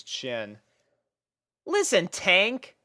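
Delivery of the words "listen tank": reassuring. A narrator's reading. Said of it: "she reassured him with a warm smile".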